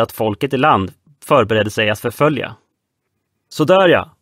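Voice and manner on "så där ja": commanding. Acted. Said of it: "kommenderade Röde Nelson".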